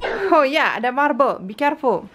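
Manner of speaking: chirpy warning to a little one. Real, not acted. Mom warning her toddler about the marble, high playful baby talk.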